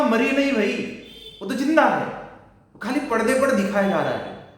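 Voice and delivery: exasperated explaining to a crying viewer; insistent retort. Retold or imitated. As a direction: talk the crying viewer out of it, emphatically.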